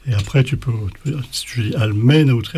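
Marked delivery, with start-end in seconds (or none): 1.8-2.6 "almenautri" with MEN punched, tri tagged on; stress on MEN. Shown as a demonstration. Teacher repeating the trick word, stress on MEN. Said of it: "l'accent tonique sur mais".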